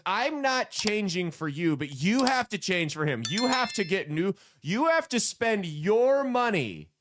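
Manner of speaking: mocking paraphrase. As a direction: drag it out, scornful and incredulous.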